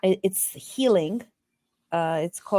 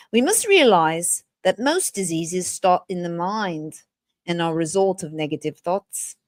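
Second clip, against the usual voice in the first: put-on British accent. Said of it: "I read in a British accent".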